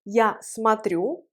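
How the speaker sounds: смотрю with its о sounded as "a"; unstressed O as A. Shown as a demonstration. Teacher demonstrating the vowel, смотрю with о as A. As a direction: say смотрю slowly as "sma-TRYU". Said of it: "elle se prononce A".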